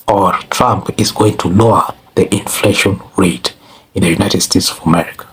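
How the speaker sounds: ordinary talk, nothing marked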